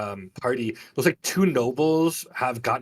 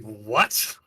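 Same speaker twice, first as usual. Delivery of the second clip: baffled guard; 3 semitones lower, 4 dB louder than usual. Acted. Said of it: "the guard just looks like".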